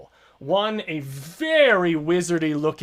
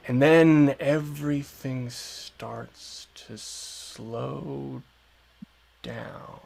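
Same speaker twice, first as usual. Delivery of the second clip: drawn-out, winding-down narration; slowing to a halt; much slower than usual. A narrator's reading. Game master describing time stopping, very slow and fading. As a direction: stretch each word as time grinds down.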